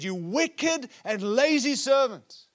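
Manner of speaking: emphatic, preacherly mock telling-off; acted rebuke. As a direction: draw out each word of the master's reproach. Master rebukes servant in parable.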